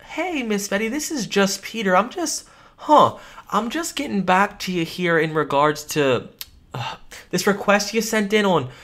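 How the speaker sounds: mildly puzzled caller voice; curious cold call. Shown as a demonstration. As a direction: sound gently confused on the phone. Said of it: "So you guys hear that?".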